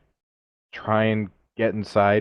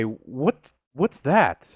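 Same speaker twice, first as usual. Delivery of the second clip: sharply rising, puzzled question; 4 semitones higher, much slower than usual. Acted. Player asks Lazarus about the noise, puzzled. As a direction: ask it with a big pitch swing.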